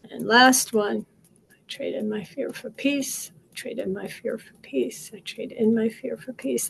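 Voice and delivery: steady, rhythmic repeated affirmation; guided affirmation. Acted. Coach leading viewers through tapping, calm chant.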